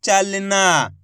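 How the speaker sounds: चलना joined up with a long final ना; merged word, ending drawn out; blended word. Shown as a demonstration. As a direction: say चलना carefully, holding the last aa. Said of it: "तो मिलके बन जाएगा".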